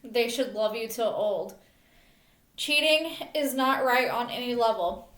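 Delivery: measured poem recital in short phrases; earnest spoken verse; poem reading. Real, not acted. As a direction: read your own poem aloud, line by line. Reads own poem aloud.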